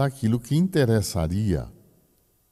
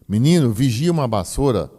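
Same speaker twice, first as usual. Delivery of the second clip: put-on a louder calling out to a boy; old-time call to a boy; 4 semitones higher, 5 dB louder than usual. Elder calling a boy to fetch a broom, raised voice. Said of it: "se dizia".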